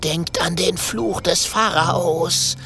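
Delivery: high, slow frightened pleading; stammering, fearful. A narrator's reading. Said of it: "stottert der Professor".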